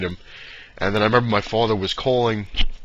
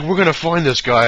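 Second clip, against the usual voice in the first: louder, higher retold dad, intent on the hunt; mock stalker dad; 7 semitones higher, 7 dB louder than usual. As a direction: play the obsessed father, pushing hard. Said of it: "My father sounded like a stalker".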